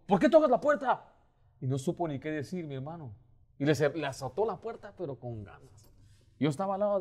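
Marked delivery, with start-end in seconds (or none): 0.1-1.1 annoyed. Retold or imitated. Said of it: "y le dijo".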